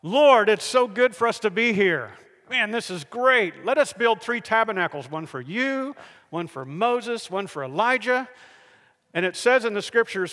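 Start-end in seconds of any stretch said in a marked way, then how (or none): 0.0-8.3 mildly excited outburst; eager blurting. Acted. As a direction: blurt it out with half-awake enthusiasm. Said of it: "blurted out".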